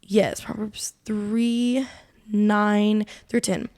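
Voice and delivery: whisper. Real, not acted. Whispered aside finding the verse.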